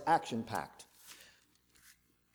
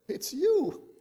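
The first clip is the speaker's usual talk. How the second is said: pointed accusation; 12 semitones higher than usual. Retold or imitated. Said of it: "And Elijah said".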